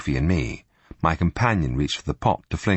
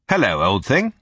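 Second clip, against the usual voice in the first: hearty public greeting; loudly. Acted. Spy greeting Sophie loudly for eavesdroppers, hearty. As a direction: put it out for the room to hear. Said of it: "Loudly, I said".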